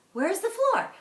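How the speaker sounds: high, loud, playful question; animated storytelling. Shown as a demonstration. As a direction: ham up the question for the kids. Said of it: "So here's an example".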